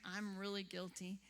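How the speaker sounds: a guilty little whisper aside; whispered confession. Real, not acted. To the audience, a sheepish whispered confession. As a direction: admit it under your breath.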